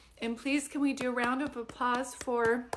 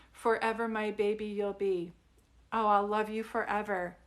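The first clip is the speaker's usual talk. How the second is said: louder, tender read-aloud of the book line; 5 dB louder than usual. Shown as a demonstration. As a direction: read the lullaby line aloud to her, fuller voice. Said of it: "I'm done with the reading".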